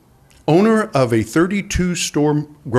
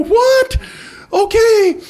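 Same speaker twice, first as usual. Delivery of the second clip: stunned what; much slower than usual. Retold or imitated. Boss hearing his new hire embezzled, stunned outburst. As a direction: blurt it out in disbelief. Shocked reaction to embezzler news.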